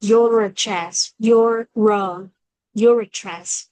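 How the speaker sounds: slow "Your address", R joining the two words; teacher's slow linking demo of "your address"; linked R. Shown as a demonstration. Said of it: "chèn giữa bởi chữ O này, chữ R".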